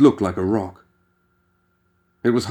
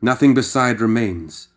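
reciting poetry; 2 semitones higher than usual. Acted. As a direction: savour each line of Ozymandias. McCabe recites Shelley.

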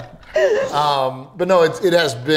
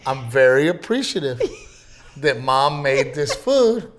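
imitating son. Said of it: "He goes".

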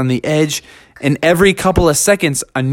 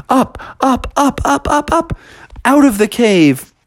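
rising up; 10 semitones higher than usual. A narrator's reading. Rising out of cave.

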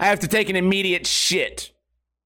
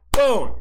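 mock explosion boom; 4 semitones higher, 4 dB louder than usual. Imitating the explosion.

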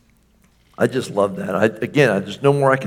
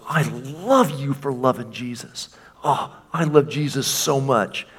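gleeful Father, jumping up at the end; the Father beaming, can't contain his joy; excited Father. Acted. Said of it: "And he gets excited".

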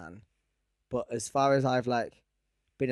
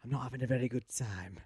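softer imitation of a northern English kid; northern meme boy; 5 dB quieter than usual. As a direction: quote the meme boy in a light northern accent. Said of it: "he's, uh, very northern".

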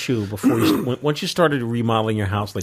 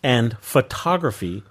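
slow radio DJ read; Casey Kasem voice; slower than usual. Acted. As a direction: read it like a long-distance dedication. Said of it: "I feel like Casey Kasem".

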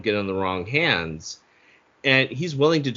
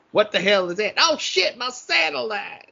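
high, panicked, near-crying yell; 12 semitones higher than usual. Acted. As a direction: wail it in total panic. Acted quote, panicked Swayze.

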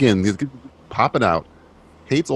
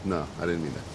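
quiet, lower backpedal; 7 semitones lower, 8 dB quieter, faster than usual. Real, not acted. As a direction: sheepishly take it back. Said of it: "I meant, I meant".

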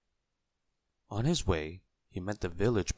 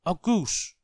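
high, loud exclamation; excited cry; 11 semitones higher, 6 dB louder than usual. A narrator's reading. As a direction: announce the discovery triumphantly. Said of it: "cried Mister Forgetful".

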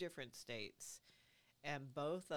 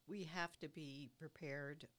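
voice going; 2 semitones higher than usual. Real, not acted. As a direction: voice giving out, worn and strained. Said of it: "Ooh, boy, my voice is really going".

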